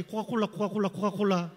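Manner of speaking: rapid repetitive mock tongues; imitated tongues prayer. Another retreat kid bursting into tongues, imitated chant. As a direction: rattle it off like someone praying in tongues. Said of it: "갑자기 방언기도가 터졌어요".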